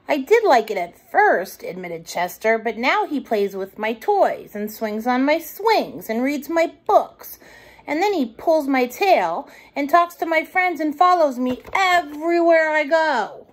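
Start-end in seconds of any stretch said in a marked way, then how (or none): 0.1-1.6 put-on lightly raised child voice; a small boy admitting it; hint of a sulky child; little raccoon. Chester speaking. 2.6-13.4 put-on higher child voice, building complaint; whiny little brother complaint; little raccoon complaining. Chester complaining.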